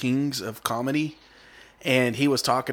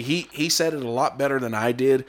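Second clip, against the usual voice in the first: normal talking voice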